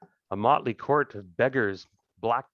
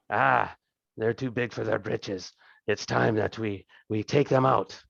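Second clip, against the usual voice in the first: boisterous lord, lightly voiced, slow in places; a hint of a greasy, jovial thug king; fat crime king. Thieves' king welcoming the party to his throne room, lightly voiced and jovial.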